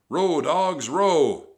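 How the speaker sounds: high, very loud bellow; Captain Bones. A narrator's reading. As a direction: drive the crew on hard. Captain drives the rowers.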